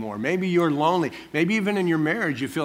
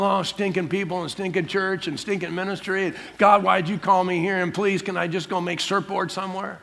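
higher-pitched griping, one complaint after another; mock grumbling; 4 semitones higher than usual. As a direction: act out a fed-up minister's moan to God. Voices own past grumbling to God.

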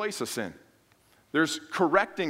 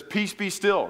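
a firm command, a touch higher and stronger; Jesus commanding the storm; 4 semitones higher, slower than usual. Retold or imitated.

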